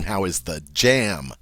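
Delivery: jam given extra weight at the end; emphasize the word jam; stress on jam. Shown as a demonstration. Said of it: "this is emphasizing".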